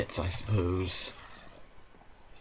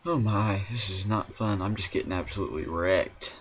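ordinary delivery

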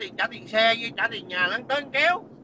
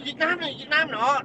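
higher-pitched mimicry of nitpicking critics; mock their endless griping, pitched up; mocking complaint; 5 semitones higher than usual. Ranter parrots critics griping about Vietnam, mockingly.

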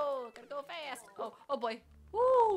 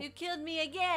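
raised, high-pitched complaint; loud accusation; 8 semitones higher, 7 dB louder than usual. Real, not acted. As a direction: shout the blame at your teammate. Accusing co-player of killing them.

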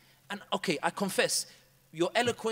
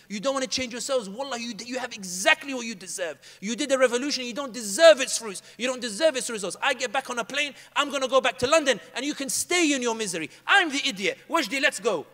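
angry scolding; 3 semitones higher, 5 dB louder than usual. Retold or imitated. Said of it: "And I got really angry".

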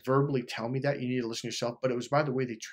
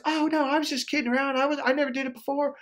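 imitated high-pitched, hurried protest; girlfriend's excuse; 11 semitones higher than usual. Girlfriend caught whispering makes excuses to him, mock high-pitched protest. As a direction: mimic her backpedalling in a much higher voice.

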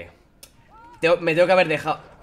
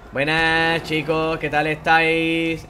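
mock cheery greeting; much slower than usual. Greeting game characters mockingly.

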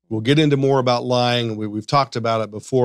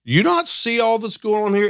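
mock disbelief; 9 semitones higher than usual. Acting out a disbelieving bystander.

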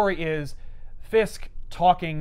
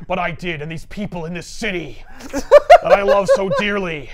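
louder, brooding crime boss; a hint of a menacing kingpin; 6 dB louder than usual. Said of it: "Could you do this in the Kingpin voice?".

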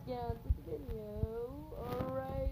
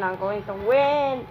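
louder determined declaration; loud boast; 7 dB louder than usual. Real, not acted. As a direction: declare it, rising to a shout. Kid boasting while gaming.

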